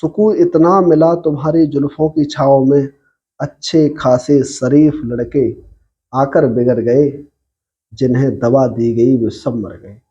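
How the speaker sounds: slow, measured poetry reading; ghazal recitation. Acted. Poet reciting a ghazal to online listeners, measured recitation. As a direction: recite each couplet deliberately, line by line. Resumes reciting after announcing the couplet.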